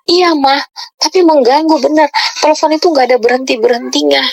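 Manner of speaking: mildly plaintive imitation of a child answering Mom; retold child's complaint. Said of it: "Dia ngomong gitu kan". (menirukan keluhan anak dengan nada tinggi)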